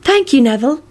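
high, beaming thanks; a pleased little thank-you; happy. A narrator's reading. Luna thanking Neville for the seat, happy. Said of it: "Luna beamed happily".

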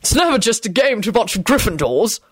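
lightly voiced insider's remark; knowing. A narrator's reading. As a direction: let the newcomer in on it. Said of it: "Arthur told Elizabeth knowingly".

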